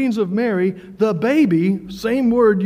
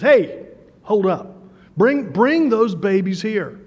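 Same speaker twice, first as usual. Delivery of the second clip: louder, slow, stern call to stop; sharp command; 4 dB louder, slower than usual. Retold or imitated. Jesus cutting the disciples off, a stern raised order. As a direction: halt them on the spot, then summon the babies.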